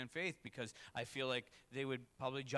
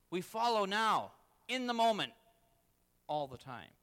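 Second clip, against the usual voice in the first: preaching shout; 5 semitones higher, 8 dB louder than usual. Real, not acted. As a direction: proclaim it with full force. Preaching climax.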